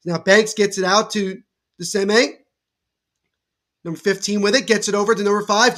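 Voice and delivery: brisk live game call, rising on the big plays; lively sports commentary. Acted. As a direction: call the action as it happens.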